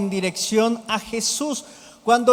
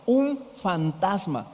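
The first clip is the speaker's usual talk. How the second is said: mock shout; 2 semitones lower, 4 dB quieter, slower than usual. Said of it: "sino gritaron".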